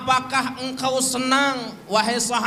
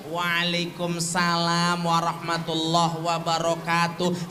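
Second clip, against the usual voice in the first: lilting, smiling; 3 semitones lower than usual. Shown as a demonstration. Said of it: "agak lenggok-lenggok ... sambil senyum".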